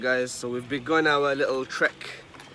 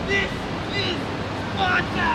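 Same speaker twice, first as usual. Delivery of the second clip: Sparta shout; slower than usual. Pretend. Movie quote shouted before jump.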